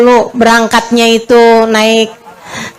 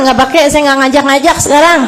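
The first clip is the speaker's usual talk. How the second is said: playful refusal; 4 semitones higher than usual. Real, not acted. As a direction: shoot it down with a laugh in it. Jokingly refusing pilgrims.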